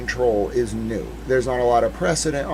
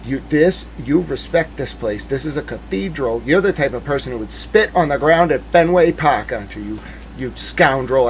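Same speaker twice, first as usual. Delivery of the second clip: retold scolding. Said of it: "I was like".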